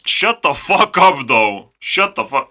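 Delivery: loud annoyed shout at the screen; yelling. Real, not acted. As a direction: bark it out, fed up. Yelling at the robot clip.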